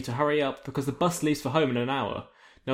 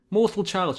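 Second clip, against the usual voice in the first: scornful; 6 semitones higher, slower than usual. Acted. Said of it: "she says in a scornful voice".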